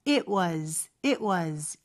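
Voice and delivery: "was" begun from a hidden "eu" with rounded lips; "it was" with the t unreleased and a rounded w; rounded W onset. Shown as a demonstration. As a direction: glide into the w of "was". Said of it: "앞에 으가 숨어있다라고 생각하고 입 모양만".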